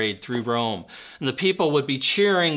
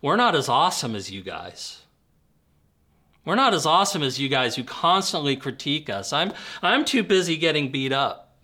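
sarcastic. Retold or imitated. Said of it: "He says sarcastically".

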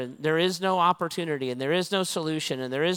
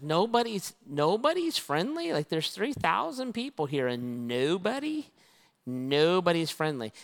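incredulous then slowing down; disbelieving echo. Retold or imitated. Pastor echoing the teen in disbelief.

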